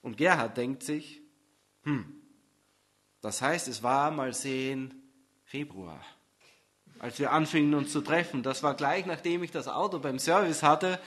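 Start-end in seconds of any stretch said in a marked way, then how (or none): 1.8-11.0 put-on boyfriend's grumbling thoughts. Gerhard's thoughts about the car.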